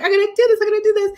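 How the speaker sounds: high, excited self-pep talk; psyched up. Retold or imitated. Retelling psyching herself up on the boat slide, high and excited. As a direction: hype yourself up before the jump.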